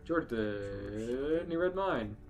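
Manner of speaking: ordinary delivery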